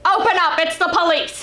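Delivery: a sister imitating her brother's fake police shout; brother playing cop. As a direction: pound out the cop line like a prank. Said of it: "so it's like".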